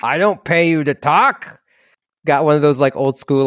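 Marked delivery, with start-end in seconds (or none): 0.0-1.6 laughing, high boss voice; angry boss. Retold or imitated. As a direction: snap it like a stingy boss. Voicing the factory lord boss.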